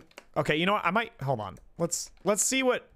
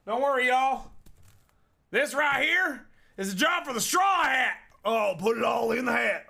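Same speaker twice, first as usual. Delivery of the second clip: hammed-up hero; 4 semitones higher than usual. Playful game-character bit.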